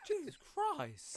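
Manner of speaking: trying not to laugh. Real, not acted. Reacting to a funny clip.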